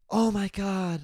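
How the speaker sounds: high, thin mock old-lady gasp; mocking the chatty old woman. Impersonating the chatty woman beside him at the movies, high and mocking. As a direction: mimic a gossipy woman gasping at the screen. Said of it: "She'd be like".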